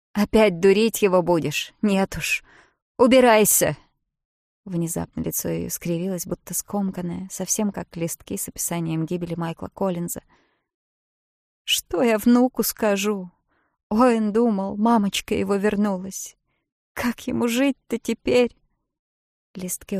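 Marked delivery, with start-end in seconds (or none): 0.1-3.8 loud, rising to a yell; angry order. Acted. Bridget refuses, orders out. 11.6-18.6 higher, slow grieving wail; tearful lament. Acted. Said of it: "утирала слёзы".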